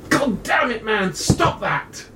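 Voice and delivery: high exasperated yell at a friend; Thaddeus shouting. Acted. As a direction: bark it out to snap him back. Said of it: "It's Thaddeus's voice".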